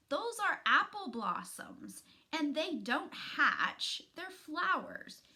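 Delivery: high, loud know-it-all correction; a know-it-all kid setting her straight, loud and high; calling out. Acted. Antonio calls out to his sister, loud and high.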